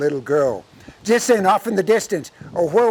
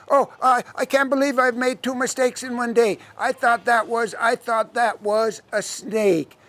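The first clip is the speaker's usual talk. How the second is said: raised-pitch mock dismay; feigned apology; 4 semitones higher than usual. Devil excusing striking the bird, higher and falsely sorry.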